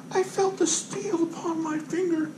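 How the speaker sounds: high, hushed theatrical voice; mock melodrama. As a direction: play it like a wounded poet, softly. Mock dramatic line after near cut.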